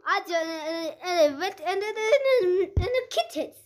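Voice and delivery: laughing through tears. Real, not acted. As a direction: giggle and whimper at once. Child laughing and crying mixed.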